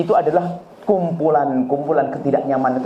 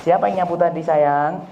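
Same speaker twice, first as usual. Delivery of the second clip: gentle mother; 2 semitones higher than usual. Retold or imitated. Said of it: "Solehah, denger".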